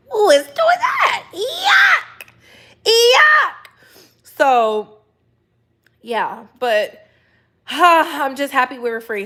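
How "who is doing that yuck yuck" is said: very high, loud yelling yuck; disgusted shriek. Real, not acted. Host to her chat about pregnancy, shrieking disgust.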